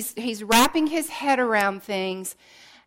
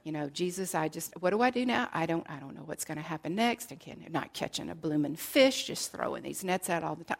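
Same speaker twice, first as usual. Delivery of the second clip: low, soft grumbling under the breath, words tumbling; mumbling to himself; 6 semitones lower, 10 dB quieter, faster than usual. Acted. Peter on the boat grumbling to himself, low mumbling. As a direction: mutter it like a discouraged fisherman talking to himself. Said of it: "I can just see Peter mumbling".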